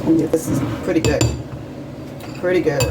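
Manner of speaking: talking while tasting; tasting off spoon. Real, not acted. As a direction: say it with a bite in your mouth. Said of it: "Let's try it on off the spoon".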